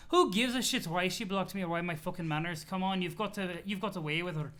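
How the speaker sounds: put-on impatient troll in a silly accent. CA pushing the auspistice to intervene, impatient accented voice. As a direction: press the point in a put-on accent. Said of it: "laughing at the C A voice".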